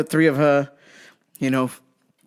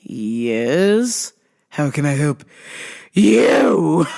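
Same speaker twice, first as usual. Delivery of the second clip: shouted customer service; much slower than usual. Retold or imitated. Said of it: "I was like".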